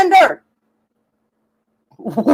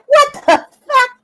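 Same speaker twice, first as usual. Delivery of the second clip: disbelief; 11 semitones higher than usual. Real, not acted.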